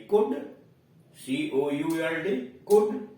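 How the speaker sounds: 'कुड' with a short u; pronunciation demo. Shown as a demonstration. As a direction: model 'कुड' twice. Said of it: "ओयू का उच्चारण उ". ('कुड' में छोटा उ)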